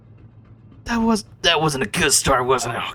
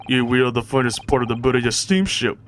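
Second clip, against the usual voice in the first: badly faked Russian accent; faster than usual. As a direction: explain proudly in a clumsy Russian accent. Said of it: "I cannot do a Russian accent".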